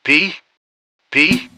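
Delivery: eerie nasal woman calling a name, mostly high and rising. A narrator's reading. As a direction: call the name through your nose like a ghostly woman, pausing between calls. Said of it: "a woman with a nasal voice called out".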